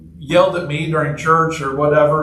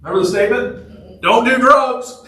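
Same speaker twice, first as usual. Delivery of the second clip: mock-cheery dismissive call, higher pitch; 6 semitones higher than usual. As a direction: toss it off like advice to kids, higher. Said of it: "I do in my dismissive way".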